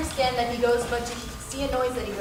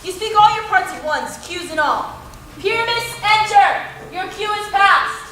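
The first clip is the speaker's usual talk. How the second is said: loud, high-pitched scolding; exasperated director shouting cues; exasperated correction; 6 semitones higher, 5 dB louder than usual. Acted. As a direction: correct the bungler at the top of your voice. Director corrects bungling amateur actor.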